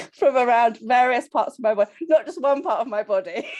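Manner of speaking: giggling as she reports her measurements; laughing. Real, not acted. Member laughing as she tells the group her inches lost.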